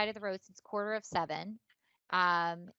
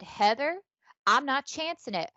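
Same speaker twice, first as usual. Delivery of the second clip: joking exclamation; 4 semitones higher, 6 dB louder than usual. Retold or imitated. Joking reply to Heather.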